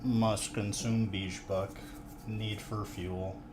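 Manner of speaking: slow, robotic game NPC monotone. Pretend. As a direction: speak like a mindless game NPC. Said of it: "N P C".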